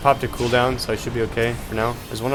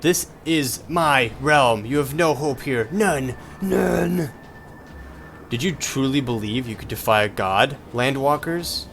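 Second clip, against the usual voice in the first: slow, grand boss-villain voice; villain goddess voice; 3 semitones higher, slower than usual. Acted. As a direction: read it as a menacing goddess. Reads boss lines in character.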